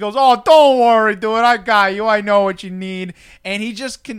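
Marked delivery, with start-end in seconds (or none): 0.2-3.1 very loud put-on Boston accent. Speaker retells a hot dog vendor's reply to them, in a boston accent. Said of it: "that's my best Boston".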